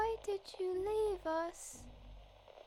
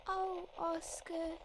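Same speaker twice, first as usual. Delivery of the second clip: put-on creepy kid; 3 dB quieter than usual. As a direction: coax Oscar home with long-held words. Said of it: "when a creepy kid wants to play".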